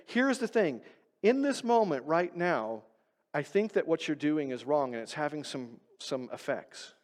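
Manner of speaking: soft, fading, reassuring; calm gentle talk. Shown as a demonstration. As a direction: speak it gently, without blame. Modelling a gentle confrontation.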